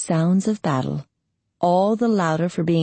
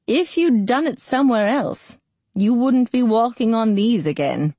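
put-on higher-pitched elderly woman; old quavering voice; 5 semitones higher than usual. A narrator's reading. Old healer tending battered knees, voice quavering. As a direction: scold lightly as an old healer. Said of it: "quavering voice said".

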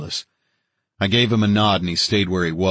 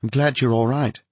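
higher, relieved woman's voice; evident relief; 6 semitones higher than usual. A narrator's reading. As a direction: speak higher, with a touch of relief. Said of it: "she said with evident relief".

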